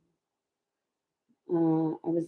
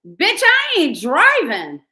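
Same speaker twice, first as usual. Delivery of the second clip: retold angry retort; 9 semitones higher, 7 dB louder, slower than usual. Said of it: "And I said".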